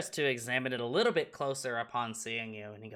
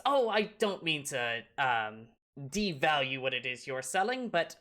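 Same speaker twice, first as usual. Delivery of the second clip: lightly voiced gnome, higher on the objection; hesitant, courteous gnome haggler; polite gnome customer; 6 semitones higher than usual. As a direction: haggle politely, lifting the pitch at the end.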